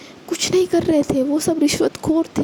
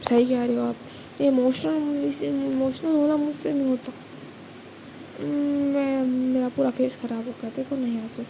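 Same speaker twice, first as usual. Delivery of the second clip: teary after crying; 6 dB quieter than usual. A narrator's reading. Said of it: "ये दोनों अब रोने लग जाते हैं".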